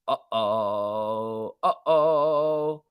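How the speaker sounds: drawn-out sing-song uh-oh; a hammed-up warning; mock uh-oh. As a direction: tease it like a kid caught. Mock dread at headline.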